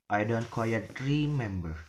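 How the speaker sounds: "remember" bending in pitch, unsure; hesitant fall-rise. Shown as a demonstration. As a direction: draw out "remember" with a swoop. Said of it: "For the example is hesitation".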